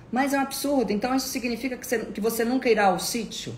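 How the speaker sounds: high, loud, hurried mock outrage; rapid high-pitched squawk of protest; indignant protest. Acts out relative's indignant protest.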